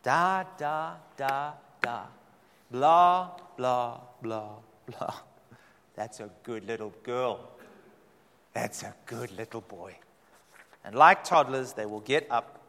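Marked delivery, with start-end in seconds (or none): 0.0-5.1 put-on baby babble. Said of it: "address them in baby talk". 5.9-10.0 put-on lower, softer coo to a toddler; hushed patronizing coo; soothing baby talk. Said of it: "address them in baby talk".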